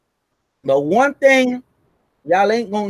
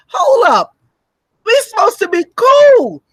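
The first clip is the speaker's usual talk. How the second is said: outraged scolding; 7 semitones higher than usual. Retold or imitated. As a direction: scold like a betrayed partner. America voiced, scolding a partner.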